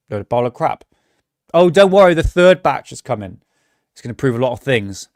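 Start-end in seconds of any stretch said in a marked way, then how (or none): 1.5-5.1 mocking reassurance. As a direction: parody the believers cheering the next batch. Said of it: "It's like".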